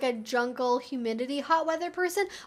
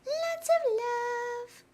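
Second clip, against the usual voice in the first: much higher, very slow squeaky "Lots of love"; high cooing; 11 semitones higher, much slower than usual. Real, not acted. Cooing to her dog in a high squeaky drawl. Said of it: "repeated higher".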